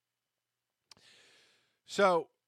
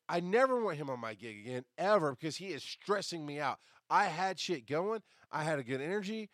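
angry rant; 5 semitones higher than usual. Retold or imitated. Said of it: "I text Josh and I'm like".

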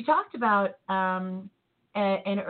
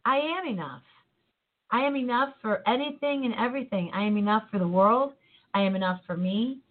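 affirmation. Shown as a demonstration. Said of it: "Say it with me".

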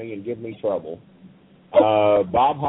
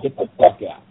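retold shout; 9 dB louder than usual. Cornette ordering Holly out.

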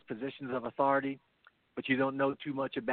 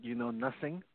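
put-on lightly done German accent, quieter; a hint of Sergeant Schultz in German accent; soft, understated German accent; mock German accent; 6 dB quieter than usual. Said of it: "in my best German accent".

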